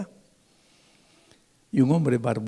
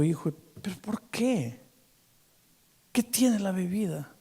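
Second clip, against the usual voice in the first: gentle pastor; 6 semitones higher, 5 dB quieter than usual. Retold or imitated. Pastor gently questions the drunk.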